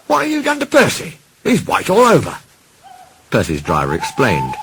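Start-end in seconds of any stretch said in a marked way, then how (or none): 0.1-2.4 high, startled railway signalman; surprised signalman. Acted. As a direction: gasp it out, much higher. Signalman shocked at white Percy.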